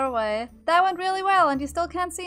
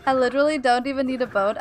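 usual speaking voice

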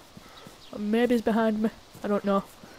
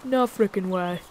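drawn-out, incredulous zombie reaction; slow, stretched mock disbelief; zombie realizing she's shot; 3 dB louder, slower than usual. Zombie slowly realizes she has been shot, mock disbelief. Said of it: "she's like".

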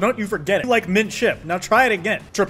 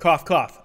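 saying cough out loud; deadpan mock cough; spoken cough sounds; 4 dB louder than usual. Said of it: "I cough again".

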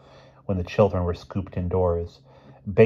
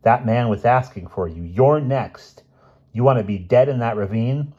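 higher, louder alarmed warning; urgent warning; 5 semitones higher, 6 dB louder than usual. Acted. Helen warns her friend about the stranger, urgently alarmed. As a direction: press the danger on her.

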